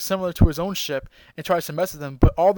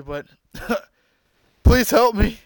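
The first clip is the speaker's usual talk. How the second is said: pleading Frieza; 6 semitones higher, 7 dB louder, slower than usual. Retold or imitated. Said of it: "Frieza, ever the scumbag Frieza, says".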